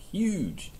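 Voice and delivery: high amazed exclamation. Real, not acted. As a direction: gasp it out in wonder. Amazed at big pile.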